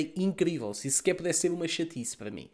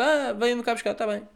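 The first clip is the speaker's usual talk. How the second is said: mock pleading; 9 semitones higher, 4 dB louder than usual. Imitating himself asking for pickup.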